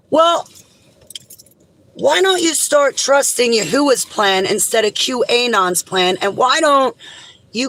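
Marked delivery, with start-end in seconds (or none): 0.1-4.8 indignant outburst. Real, not acted. Rebuking the followers.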